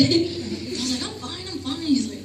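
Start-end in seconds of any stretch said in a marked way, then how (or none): 1.1-1.8 high, quick nervous "I'm fine", half laughing; nervous reassurance. Retold or imitated. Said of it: "talking all nervous".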